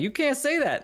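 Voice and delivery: high-pitched mock protest; mock scolding. Husband objecting to his wife near the niece, high mock scolding. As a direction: imitate yourself protesting, voice jumping up high.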